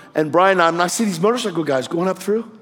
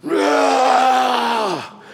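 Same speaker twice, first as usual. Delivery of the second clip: mock rage yell; 3 semitones higher than usual. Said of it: "he is really, really angry".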